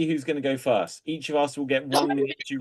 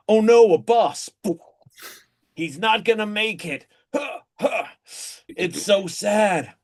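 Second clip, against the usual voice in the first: Keanu Reeves impression. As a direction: play a chill surfer-dude Keanu. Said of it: "You like my Keanu Reeves impression?".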